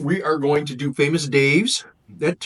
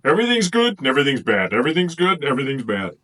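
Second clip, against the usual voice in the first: smooth, quick politician's non-answer; faster than usual. Pretend. Tasting muffins, mocking herself as a quick-talking politician. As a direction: spin it like a politician dodging. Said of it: "I sound like a politician".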